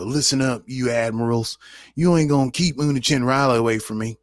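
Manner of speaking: a light hint of a cowboy; playful cowboy voice, lightly done. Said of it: "Pardon my cow-, cowboy voice".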